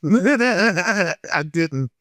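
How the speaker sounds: denial laughed through; laughing. Real, not acted. Still amused insisting he held his tongue, laughing. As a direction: laugh while repeating it.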